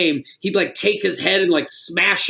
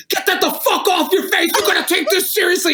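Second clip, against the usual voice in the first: angry captain shout; 12 semitones higher than usual. Retold or imitated. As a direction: blow up at him like a mad captain. Angry captain yelling at buddy.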